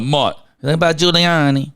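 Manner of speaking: loud, retold Russian accent. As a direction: keep the Russian accent going. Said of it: "Russian accent".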